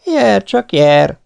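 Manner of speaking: high, loud, slow drawn-out call; loud challenge. Acted. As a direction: bellow the dare at the giants. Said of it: "hívta Rózsa királyfi". (magas, hangos, elnyújtott kiáltás)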